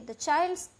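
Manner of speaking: slow, deliberate reading of the English text; slow story reading. A narrator's reading. Teacher reading the English passage aloud, slow and clear. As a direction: read each word out clearly for the class.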